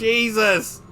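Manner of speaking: high, loud exclamation; retold astonishment. Viewer reacting to the film, astonished mock cry. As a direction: exclaim it in exaggerated shock. Retells own reaction to the scene.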